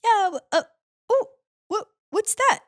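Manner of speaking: high, halting slug voice; slug Nigel. Retold or imitated. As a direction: stammer in puzzlement as the slug. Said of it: "Nigel's like".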